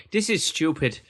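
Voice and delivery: Northern Irish lilt, unintentionally slipped into; Northern Irish accent. Acted. Co-host reading a player's tweet for laughs, Northern Irish accent. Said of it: "Why have I gone Northern Irish?".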